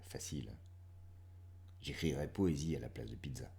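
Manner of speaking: measured poetry reading with long pauses; poem recitation. Acted. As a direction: recite lightly, letting line endings drop to near-whisper. Reads poem aloud.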